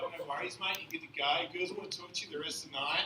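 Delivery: put-on Australian accent; casual chat in an Australian accent. Comic showing how an accent charms women, Australian accent. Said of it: "as long as you have an accent".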